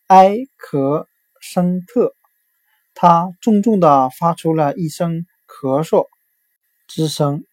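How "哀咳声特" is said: 哀咳声特 slowly, syllable by syllable, as a sound-alike for "accent"; slow, separated 哀, 咳, 声, 特 mimicking the English word; Chinese sound-alike. Shown as a demonstration. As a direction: say 哀咳声特 as four spaced Mandarin syllables. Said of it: "通过它的发音联想到汉语的".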